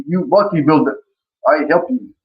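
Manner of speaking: imitating a Bulgarian coach's accent. Coach offering an athlete help with bodybuilding, Bulgarian accent. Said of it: "I have to admire your accent there".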